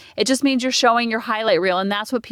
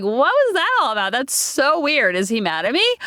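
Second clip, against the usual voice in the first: put-on confused teen girl. Confused after phone call.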